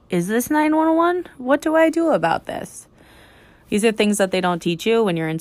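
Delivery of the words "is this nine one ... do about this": high-pitched, helpless questioning; acted-out fretful bewilderment; mock panic. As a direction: play at being at a total loss, pitched way up. Imagined panicked teacher unsure whom to call.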